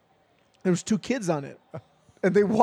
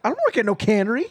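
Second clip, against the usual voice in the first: indignant retort; 5 semitones higher, 4 dB louder, faster than usual. Retold or imitated. Dad denies working at cannery.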